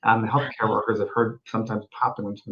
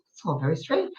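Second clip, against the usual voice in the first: put-on Scottish accent; 3 semitones higher, 7 dB quieter than usual. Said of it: "And it was a Scottish woman".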